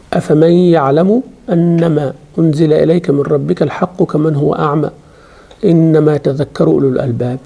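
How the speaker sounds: fast, flowing chanted Arabic; a teacher reciting the verse to her students; Quranic recitation. Acted. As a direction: recite the verse as tilawah, melodic and steady.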